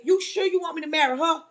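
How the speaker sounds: mildly incredulous question, rising at the end; doubting question. Retold or imitated. Man questioning God's order to marry, mildly incredulous. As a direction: check back in disbelief, lightly acted. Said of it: "the man looked at God and said".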